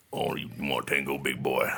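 a sultry come-on, low. Retold or imitated. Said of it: "the lower".

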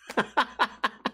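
real laugh. Real, not acted. Laughing at own story.

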